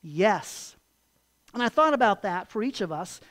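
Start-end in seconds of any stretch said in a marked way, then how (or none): 0.0-0.8 low, firm "Yes" set apart by a pause; emphatic yes. Acted. Preacher answering for Joseph, emphatic yes. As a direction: land "Yes" firmly as a single emphatic word. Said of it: "emphatically said".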